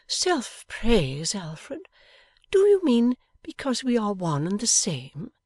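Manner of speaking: high, emphatic wifely query; wife in mock-innocent protest. A narrator's reading.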